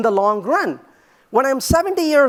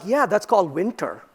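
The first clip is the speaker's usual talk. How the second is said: a dry dad comeback, quieter; dry retort; 5 semitones lower, 4 dB quieter than usual. Retold or imitated. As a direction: drop it flat and soft, deadpan.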